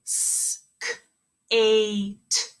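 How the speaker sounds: "S, p, ein" as separate sounds, the S whispered; sounded out. Shown as a demonstration. Teacher models segmenting a word for the class, sound by sound. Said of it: "Make sure you're saying them".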